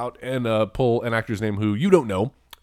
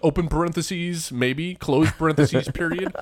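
spelling out punctuation aloud; dictating; 6 semitones higher, slower than usual. Pretend. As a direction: dictate it like a text message. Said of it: "as I'm dictating".

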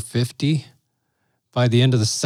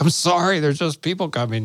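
higher-pitched mock apology; apologetic; 4 semitones higher than usual. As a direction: plead a sheepish excuse, half laughing. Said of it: "I was trying to apologize".

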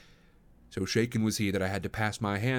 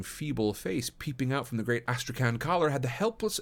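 ordinary delivery, nothing marked

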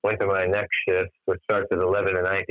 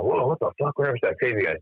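shocked exclaim; 5 semitones higher than usual. Retold or imitated. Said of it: "I'm like".

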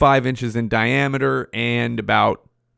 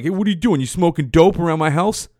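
imitating dad; 5 semitones higher, 3 dB louder than usual. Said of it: "he'd be like".

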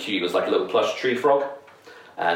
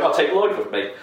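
imitating little kid; 8 semitones higher than usual. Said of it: "I was like".

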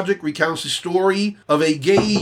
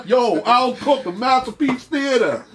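laughing; 6 semitones higher than usual. Acted. Jokey greeting to the host.

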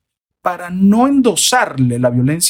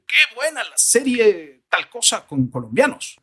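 higher, drawn-out appreciative exclamation; admiring praise; 6 semitones higher than usual. Acted. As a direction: praise it slowly, lifted in pitch. Acting out a viewer's praise. (elogio admirado, agudo y alargado)

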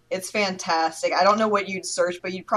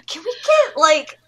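white customer impression; slower than usual. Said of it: "impression of a white person ordering".

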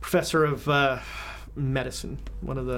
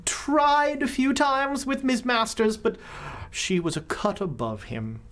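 haughty posh drawl; 5 semitones higher than usual. Acted. Gossiping socialite voice, slow.

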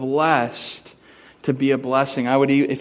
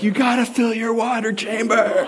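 laughing tease; 6 semitones higher than usual. Retold or imitated. Teasing daughter after soaking her.

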